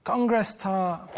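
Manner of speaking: "Congress tart" said slowly and deliberately; slow code word. Pretend. Role-play phone call, giving code.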